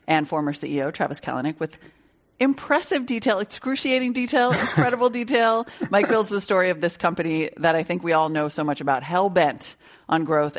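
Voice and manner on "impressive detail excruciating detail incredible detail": rising, emphatic praise; playful build-up. Real, not acted. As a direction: stack up the adjectives with a grin.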